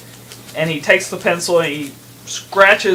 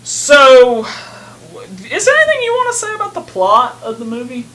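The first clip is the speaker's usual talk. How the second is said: whisper yelling; 7 semitones higher than usual. Real, not acted. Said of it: "But whisper yell".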